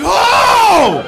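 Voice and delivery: loud, high mock shriek "oh"; shocked cry of disbelief. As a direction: imitate a kid's stunned outburst. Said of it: "he couldn't believe it".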